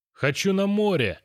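put-on high, loud child's yell; bawling at the top of his lungs. A narrator's reading. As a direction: scream it like a spoiled kid. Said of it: "орал он во всю глотку". (орёт во всё горло, высоко)

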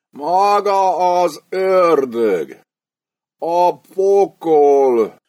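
high, very slow, dazed ramble; half-conscious terrified mumble. A narrator's reading. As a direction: murmur it like a man out of his mind. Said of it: "motyogta félig eszméletlenül". (félájultan, magasan, nagyon lassan motyogva)

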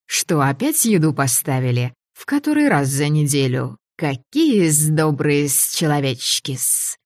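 a mild hiss of delight at food; breathy hiss through teeth. Acted. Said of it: "Подкурганный упырь зашипел".

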